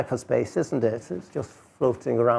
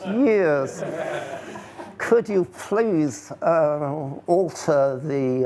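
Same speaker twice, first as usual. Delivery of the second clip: slow, higher, amused mock official asking Jane Austen; mock corporate request; 4 semitones higher, slower than usual. Speaker mocking app companies to the audience, slow amused official voice. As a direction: drawl it out like a polite bureaucrat, half laughing.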